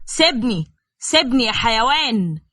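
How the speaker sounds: shouting. Acted. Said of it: "وهو بيزعق".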